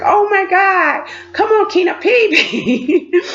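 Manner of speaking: high, hammed-up pleading; desperate self-urging. Urging herself to pee for the visit, desperate. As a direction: beg your own body, comically desperate.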